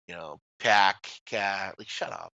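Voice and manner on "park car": r-less Boston "pahk, cah"; lower, drawn-out parody of Boston speech; mock Boston accent. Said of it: "Boston's tough too. You know, that stupid".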